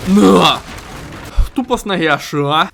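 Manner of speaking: sharp shouted "На!"; triumphant yell; loud kick shout. Real, not acted. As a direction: yell it as you land the kick. Kicking enemy.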